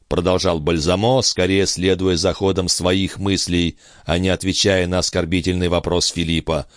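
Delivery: ordinary delivery, nothing marked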